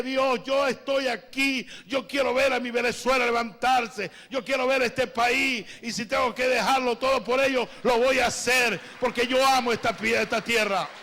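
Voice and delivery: fervent loud prayer of commitment; impassioned prayer. Retold or imitated. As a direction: pour your heart out in a pledge. His retold vow to God.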